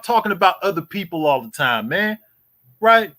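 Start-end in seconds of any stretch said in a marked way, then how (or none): 2.8-3.1 taunting challenge. Real, not acted. Taunting rival on livestream.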